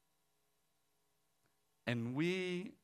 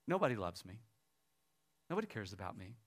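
subdued, softly voiced crying woman; retold crying; 4 semitones lower, 4 dB quieter, faster than usual. Crying woman confides her life to the others, subdued. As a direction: give her hurt quietly, without sobs. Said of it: "this lady was crying".

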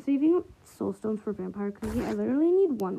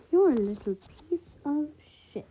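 mock British accent; 4 semitones higher, 3 dB louder than usual. Gamer jokes that a British accent hides swearing. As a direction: insult in a light put-on British accent. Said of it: "with the British accent".

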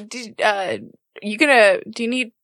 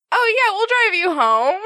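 "Oh yeah, we'll drive you home." pitched much higher, eager; Bianca's overeager offer; 11 semitones higher than usual. Shown as a demonstration. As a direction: chirp the offer up high like an overeager hostess. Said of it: "for Bianca to be like".

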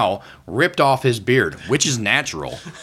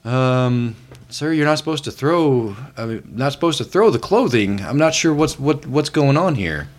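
awkward store worker; 2 semitones higher than usual. Acted. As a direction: stammer it out politely. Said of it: "a worker walks up and is like".

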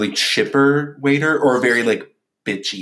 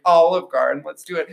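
playful, higher; mock-eager suggestion; joking suggestion; 5 semitones higher than usual. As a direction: pitch it as a joke. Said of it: "I was like".

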